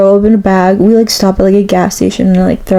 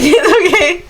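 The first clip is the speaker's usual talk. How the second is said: comforting friends; 9 semitones higher, slower than usual. Retold or imitated. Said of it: "the twins are so sweet 'cause they're like".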